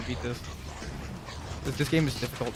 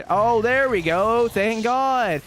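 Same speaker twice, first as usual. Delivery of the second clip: relieved; 8 semitones higher, 6 dB louder, much slower than usual. Real, not acted. Relief after finally getting gun.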